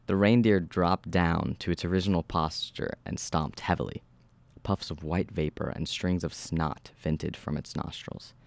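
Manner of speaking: measured horror-story narration; steady storyteller reading. A narrator's reading. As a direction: read the story aloud with even, controlled delivery. Reads horror story aloud.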